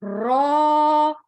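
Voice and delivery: रॉ with trilled r; rolled heavy ra. Shown as a demonstration. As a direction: roll the r in रॉ, thick. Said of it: "तकरार की आवाज आनी जरूरी".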